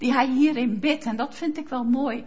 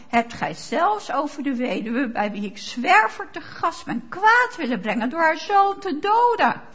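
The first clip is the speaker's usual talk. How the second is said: bewilderment; 2 semitones higher than usual. Acted. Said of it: "Ik hoor verbijstering".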